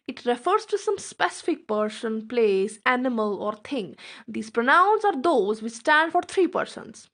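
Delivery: very slow, word-by-word definition read aloud; slow dictation. Acted. Teacher dictating the definition to her students, slow and deliberate. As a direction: spell it out slowly so students can write it down.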